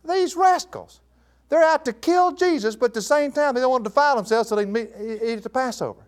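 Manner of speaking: high-pitched, incredulous scolding; indignant exclamation. Real, not acted. Preacher to congregation about the hypocritical accusers, indignant.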